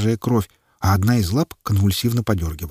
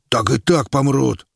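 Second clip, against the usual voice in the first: slow, raised, blaring retort; trumpeted; 5 semitones higher, slower than usual. A narrator's reading. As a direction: blare it back at the doctor. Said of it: "протрубил Квас".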